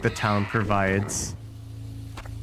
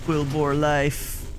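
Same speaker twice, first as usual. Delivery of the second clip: cool boar impression; 4 semitones higher, slower than usual. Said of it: "That's my impression of a cool boar".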